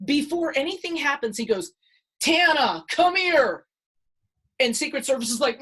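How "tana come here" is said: loud, high call across the crowd. Retold or imitated. Trump calling Tana through security, loud call. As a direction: call her over, voice raised.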